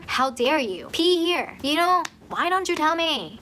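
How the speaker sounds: imitated indignation, pitched high; mad. Main character scolding a friend over the washroom, mad. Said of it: "She gets mad".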